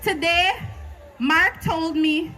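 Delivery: rhythmic slam poem delivery; spoken word poetry. Acted.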